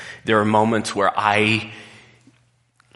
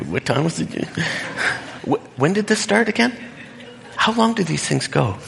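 mock impatience; 8 semitones higher than usual. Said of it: "I'm just like".

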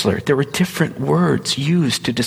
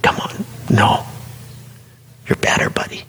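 gentle urging. Retold or imitated. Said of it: "I can feel him going".

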